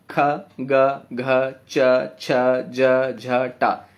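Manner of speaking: ख, ग, घ recited one by one with only a short "a"; each letter from ख to ट said separately; bare consonants. Shown as a demonstration. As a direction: list ख, ग, घ as single short beats. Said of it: "बिना स्वर के".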